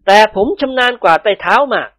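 a chuckle before a cheeky boast; laugh, then brag. Acted. A servant bragging to his master with a chuckle. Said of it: "นิกรหัวเราะ".

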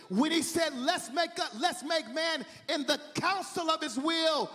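impassioned sermon delivery; fervent preaching. Acted. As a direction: preach it with rising fervor. Preaches at full force.

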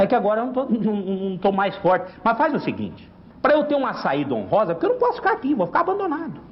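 put-on high, pleading old rooster voice; old rooster begging the young cock for a dignified exit, high and pleading.

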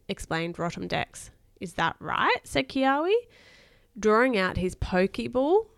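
put-on lively read-aloud to a child; expressive bedtime story reading. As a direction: read a children's adventure aloud with emphatic key words.

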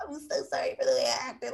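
whimpering, put-on sorry voice; mock apology. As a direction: apologize in an exaggerated, tearful mock whine. Mocks an apology after outburst.

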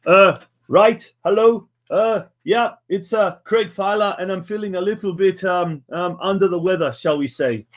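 put-on Welsh accent, coming out vaguely German; attempted Welsh accent. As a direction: have a go at a Welsh accent, not very convincingly. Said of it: "I tried my best Welsh accent".

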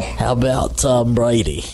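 slow Boston drawl on Tom Brady; Boston accent. Pretend. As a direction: say it like a Southie local. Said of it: "Boston accent".

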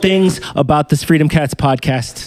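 a weak attempt at Trump; Trump impression. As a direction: whine about the haters like Trump. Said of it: "I can't do Trump".

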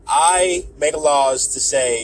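slow, measured celebrity impression; lightly put-on rapper voice, drawn out; hint of a self-important star making a decree; a rapper. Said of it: "it's my best rapper impression".

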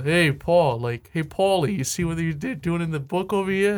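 put-on Boston accent. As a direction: attempt a chummy Boston accent. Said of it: "I'm gonna do a Boston".

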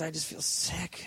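softly retold, dragged-out misery; imitating upset son. Son telling his dad how he feels, mildly upset. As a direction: drag it out quietly, mildly upset. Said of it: "He's really upset".

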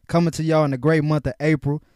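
ordinary delivery

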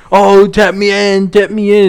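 pleading wrestler. Retold or imitated. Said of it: "where they're like".

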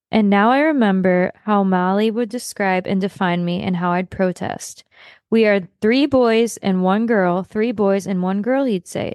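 reading a memoir's last page aloud, steady and sincere. Acted. Podcast host reads the last page to her co-host, sincere and steady. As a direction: read the closing page like a book narrator.

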